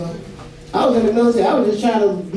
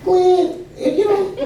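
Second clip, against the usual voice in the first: mock exasperated; 9 semitones higher, slower than usual. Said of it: "I'm like".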